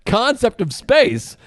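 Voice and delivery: slow, giggly words; laughing while talking. Real, not acted. Telling about the kid, slowed and laughing. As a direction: laugh through the line.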